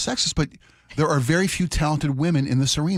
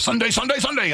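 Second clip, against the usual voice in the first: monster truck announcer; 7 semitones higher than usual. Retold or imitated. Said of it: "see those guys".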